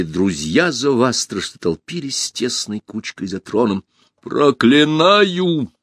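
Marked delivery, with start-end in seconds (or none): 4.2-5.7 higher, long-drawn cry; loud curse. A narrator's reading. Shot empress cursing her killers, loud drawn-out cry. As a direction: stretch the curse out over the hall. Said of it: "произнесла громко императрица".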